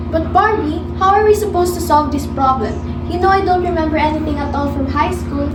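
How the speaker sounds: loud pleading. Acted. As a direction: cry out for help, overwhelmed. Panicked friend pleads about problem.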